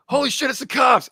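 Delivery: high alarmed yell at the sight of cops; half-mock shout, pitch jumping way up; retold panicked shout. Kids at the party yelling that cops arrived, alarmed shout.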